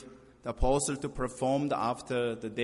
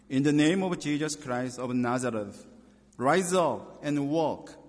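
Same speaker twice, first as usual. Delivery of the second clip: commanding; 4 dB louder than usual. Acted. Peter commands lame man rise.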